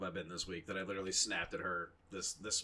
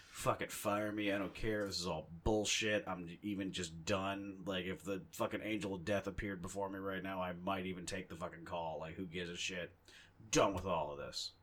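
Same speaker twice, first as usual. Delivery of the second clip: depressed and fed up; 3 dB quieter than usual. Retold or imitated. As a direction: grumble it like you've given up. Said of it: "super depressed, just angry, hating".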